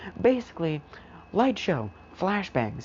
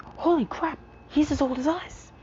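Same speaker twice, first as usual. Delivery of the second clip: much higher, astonished outburst; shocked surprise. Acted. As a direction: blurt it out in total disbelief. Mina shocked at his age.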